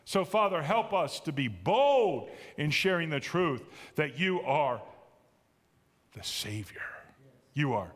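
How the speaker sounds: earnest closing prayer, fading to a hush at the end. Acted.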